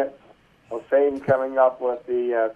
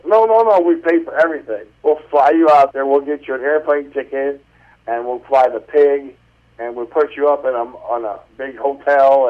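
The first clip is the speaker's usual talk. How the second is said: eager producer; 4 dB louder than usual. Retold or imitated. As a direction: gush about everything they'll pay for. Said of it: "and she goes".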